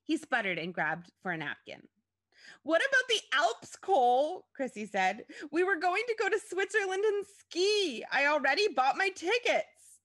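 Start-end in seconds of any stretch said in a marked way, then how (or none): 2.6-4.5 high, loud protest; outraged yell. A narrator's reading. Chrissy confronts Cole about the trip, outraged yell. 5.5-10.0 high, loud wailing protest; outraged yell. A narrator's reading. Chrissy protests to Cole about tickets, outraged wail.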